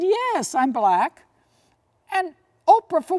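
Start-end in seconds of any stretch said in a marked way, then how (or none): 0.0-1.3 high-pitched woman voice. Retold or imitated. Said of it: "the woman said".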